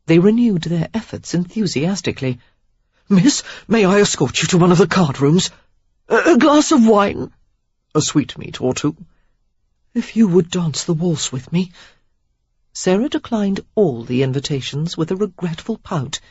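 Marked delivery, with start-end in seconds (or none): 3.1-11.7 eager suitors. A narrator's reading. Suitors pleading all at once.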